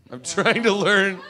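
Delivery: high put-on voice; hammed-up insistence, voice jumping high; comic plea.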